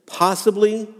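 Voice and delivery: lightly voiced father losing hope; doubt and despair. Preacher voicing the boy's father to Jesus, mildly despairing. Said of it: "the doubt and despair in this dad's voice".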